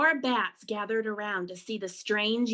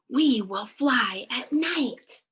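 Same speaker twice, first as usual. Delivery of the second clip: slow, emphatic promise, mildly excited; 2 semitones higher, 5 dB louder, slower than usual. Acted. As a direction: build anticipation word by word. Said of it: "said excitedly".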